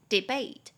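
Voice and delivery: debate said as de-BATE, the bate syllable stressed; stress on the second syllable. Shown as a demonstration. Teacher modeling debate with the stress on bate. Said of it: "中音节在第二音节".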